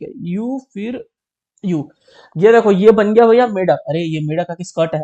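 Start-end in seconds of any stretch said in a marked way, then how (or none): 2.4-3.8 proud reveal. Real, not acted. Proudly reveals finished frog.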